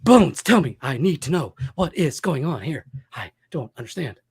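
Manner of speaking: captain pleading with Bones, hammed up; mock captain. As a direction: play the worried captain demanding answers. Mock starship captain plea.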